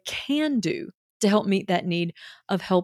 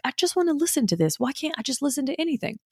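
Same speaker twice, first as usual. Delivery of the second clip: guilty whine; 6 semitones higher than usual. Retold or imitated. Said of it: "they might feel guilty and like".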